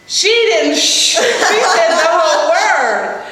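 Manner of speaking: can barely say it for laughing; laughing disbelief. Real, not acted. Mom telling how her kid sang a swear word, laughing.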